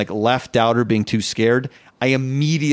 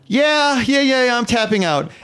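much higher, rushed yeah yeah yeah; high nervous eagerness; 10 semitones higher than usual. Retold or imitated. Answering the instructor, a high nervous squeak. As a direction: squeak it out to escape fast.

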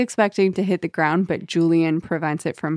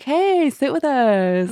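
higher, slow, drawn-out invitation; mock flirty invite; 6 semitones higher, slower than usual. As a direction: stretch it out as a come-on. Acting the fraternity's invitation.

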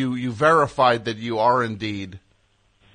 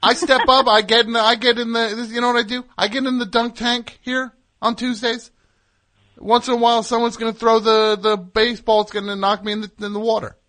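hammed-up excitement; 9 semitones higher, 3 dB louder than usual. Host hams up dunk tank bit.

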